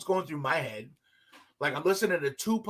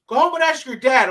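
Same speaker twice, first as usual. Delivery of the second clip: put-on louder, higher French-accented punchline; 8 semitones higher, 8 dB louder than usual. Bus driver landing his joke on a kid, French accent. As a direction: deliver the jibe with a French accent. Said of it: "we have the strong French accent".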